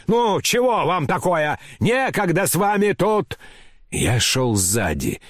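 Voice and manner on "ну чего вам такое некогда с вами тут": high, impatient scolding; crying out. A narrator's reading. Grandmother brushing off the company in her way, crying out impatiently. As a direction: brush them off in a mild high-pitched shout. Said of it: "кричала бабушка".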